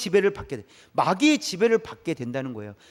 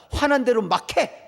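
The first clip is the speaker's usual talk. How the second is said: raised, drawn-out goading; acted angry urging; 5 semitones higher than usual. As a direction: goad someone on, slow and higher. Acts out devil's angry urging. (화를 부추기는 높고 느린 말투)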